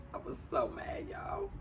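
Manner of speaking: hissed, strained outburst of real anger; furious whisper-shout. Real, not acted. Venting to viewers about her nephew's death, a real furious whisper-shout. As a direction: force it out in a breathy cry of rage.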